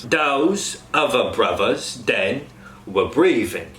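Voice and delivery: slow Cockney, "other" as uvver, "breathing" as breeving; slow Cockney example; Cockney TH sounds. Shown as a demonstration. Coach demos TH sounds to cast. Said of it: "An example sentence".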